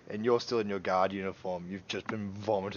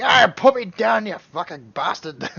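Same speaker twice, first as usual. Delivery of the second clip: much higher and louder, a hammed-up squeal; high squealing yell; 11 semitones higher, 12 dB louder than usual. Drunk man dangling from Chug's grip, hammed-up high shriek.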